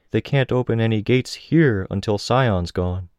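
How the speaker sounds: high voice for a side character; irregular teammate. A narrator's reading.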